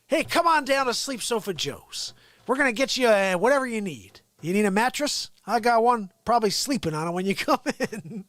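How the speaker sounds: light cheesy salesman voice; mock ad pitch. Mocking Biden as a furniture store pitchman. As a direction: pitch the sofas like a local ad.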